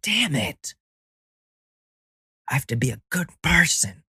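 high-pitched, comically thwarted outburst; hammed-up disappointed whine; mock frustration. Acting a thwarted prisoner's reaction.

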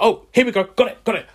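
finally found the email; excited relief. Retold or imitated. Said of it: "I was like".

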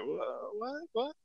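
shocked stammer. Retold or imitated. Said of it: "we were like".

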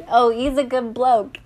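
light mock Australian accent; Australian accent attempt. Girlfriend copying a friend's TV impression, in mock Australian. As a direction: try an Aussie accent, imitating a friend. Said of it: "What was he saying?".

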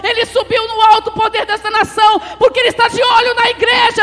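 high, loud prophetic proclamation; full-force preaching. Real, not acted. Preacher warning the congregation about the nation, full-force preaching. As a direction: drive each clause out at full volume.

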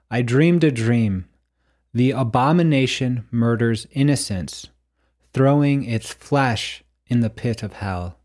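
measured, emphatic reading of an inscription; solemn recitation. Acted. Reading the painting's writing to listeners, solemn recitation. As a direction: declaim it phrase by phrase with pauses.

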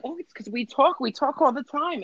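high whiny mimic; mocking Gina. Imitating Gina's excuse.

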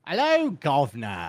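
slow put-on British greeting; mock British accent. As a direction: drawl it like a cartoon Brit.

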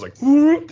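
high, loud whoop of something zipping past; whoop sound effect. Retold or imitated. Describing Cobra slithering through the tube, high loud whoop. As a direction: zip it out like a slide whistle.

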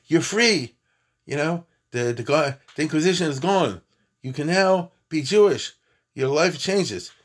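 a touch of proclaiming excitement; emphatic announcement. Retold or imitated. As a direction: announce their freedom, lifting the key words. Voicing news of freedom to escapees.

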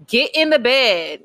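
mock frustrated bedtime order, drawn out; frustrated parent. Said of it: "I get frustrated".

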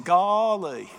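loud, drawn-out country exclamation; hammed-up amazed bumpkin; Gomer Powell. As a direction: stretch it out in dopey amazement. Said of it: "be like Gomer Powell saying".

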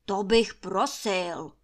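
growl. Acted. Master Trautenberg growling at his servant girl. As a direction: growl it out like a grumpy lord. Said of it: "zavrčel Trautenberg".

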